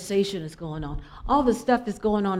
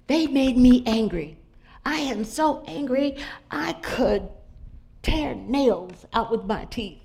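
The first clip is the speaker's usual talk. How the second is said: angry caller; 3 semitones higher, slower than usual. Retold or imitated. Friend venting anger on phone.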